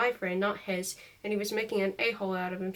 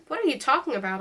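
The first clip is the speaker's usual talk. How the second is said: crying out; 4 semitones higher, 4 dB louder than usual. Acted. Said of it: "I cried".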